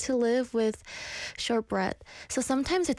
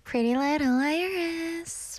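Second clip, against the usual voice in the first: slow, stretched name tag, a bit higher; drawn-out ident; 4 semitones higher, much slower than usual. Pretend. DJ repeating her name for listeners, drawn out slowly. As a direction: draw the DJ name right out.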